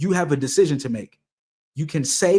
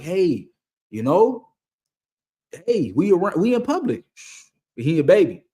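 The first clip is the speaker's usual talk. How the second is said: lightly voiced mom, higher pitch; flustered mom; 4 semitones higher than usual. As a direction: hush a baby in public, pitched up. Voicing flustered mom in store.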